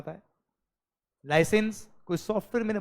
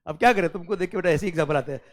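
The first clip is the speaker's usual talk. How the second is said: usual speaking voice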